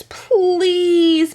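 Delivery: put-on high, loud childlike plea; begging child. A narrator's reading. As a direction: plead like an eager kid. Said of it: "begged Meg and Sean together".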